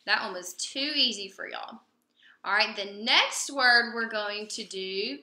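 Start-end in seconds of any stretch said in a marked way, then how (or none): 0.0-1.8 playful whispered aside to the class. Real, not acted. Teacher teases her class in a whisper. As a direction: lean in and whisper it. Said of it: "aside to class".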